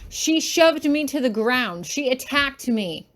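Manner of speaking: accusing. Acted. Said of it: "he yells".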